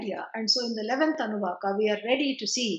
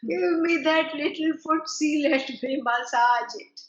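put-on higher, cooing baby talk to a sore foot; cooing sympathy; 4 semitones higher than usual. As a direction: coo over him like a hurt child. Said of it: "No, she said".

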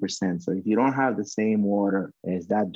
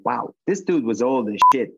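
louder, amazed outburst; retold amazement; 3 semitones higher, 5 dB louder than usual. Recalling to the host how the old customer amazed him, loud and awed. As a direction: let the wow burst out in awe.

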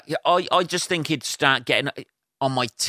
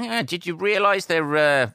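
casual slip-in; 5 semitones higher than usual. Pretend. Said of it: "you just casually slip in".

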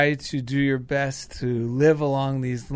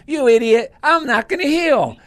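higher, louder mock scolding; scolding body voice; 8 semitones higher, 5 dB louder than usual. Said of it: "my body doesn't go".

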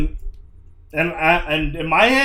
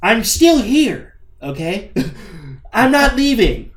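retold telling-off; 7 semitones higher than usual. Telling off the salesman.

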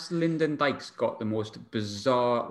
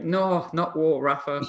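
hammed-up horror at the news; mock shocked fan; 6 semitones higher, slower than usual. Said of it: "the sheer shock on every Newcastle fan's face".

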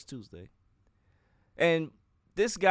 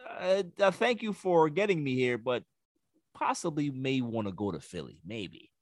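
imitating sheepish player. Player hedging to Brooklyn about leaving for Philly, mock sheepish. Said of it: "And then you're like".

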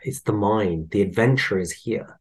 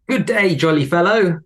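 higher, sing-song mock greeting; mocking lady; 7 semitones higher, 4 dB louder than usual. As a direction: tease like a sarcastic old lady. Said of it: "She goes".

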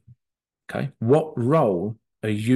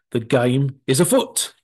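Sherlock Holmes. Retold or imitated. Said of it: "As Sherlock Holmes would say".

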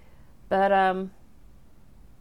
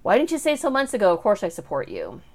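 exasperated; 3 semitones higher, 6 dB louder than usual. Retold or imitated. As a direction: imitate someone fed up, pushing out the first words. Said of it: "Truman was just kind of exasperated".

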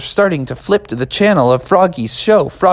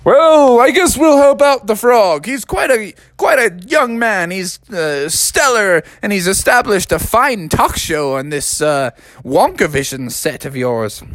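presidents' voice; 5 semitones higher than usual. Acted. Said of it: "they said".

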